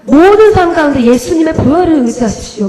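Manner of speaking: mock a father exhorting his congregation; imitating preacher father. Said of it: "우리 아빠가 그랬어요". (설교하는 아빠 흉내)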